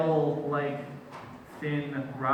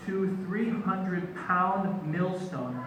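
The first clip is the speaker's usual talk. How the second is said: mafia threat; 4 semitones higher, much slower than usual. Acted. Mock mafia threat, counting up the weight.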